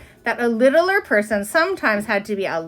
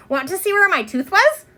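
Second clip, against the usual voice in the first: put-on eager child; 8 semitones higher than usual. Ramona shows off her tooth.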